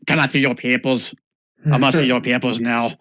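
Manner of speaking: mock German accent demand; German-accented border guard. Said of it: "Does he say it with a German accent?".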